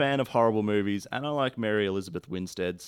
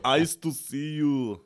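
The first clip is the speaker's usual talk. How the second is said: Batman quote; 4 semitones higher, 5 dB louder, much slower than usual. Retold or imitated. Batman reference, far slow.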